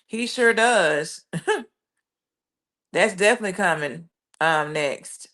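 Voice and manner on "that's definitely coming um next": quick, chuckling through the words; laughing. Real, not acted. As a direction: laugh as you rush it out. Laughs while answering a viewer comment.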